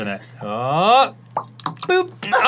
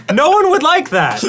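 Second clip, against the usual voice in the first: furious chef; 13 semitones higher, 4 dB louder, slower than usual. Acted. Outraged at gross drink.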